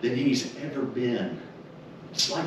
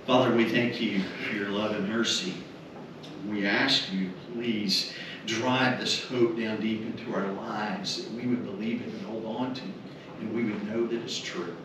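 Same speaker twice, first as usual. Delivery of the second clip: prayer; 2 semitones lower than usual. Acted. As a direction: pray gently over the family. Leads the closing prayer.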